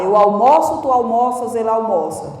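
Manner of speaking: "almoço, almoças, almoça" with open stressed O; recited verb forms, open O in "almoça"; open O conjugation. Shown as a demonstration. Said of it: "O verbo almoçar".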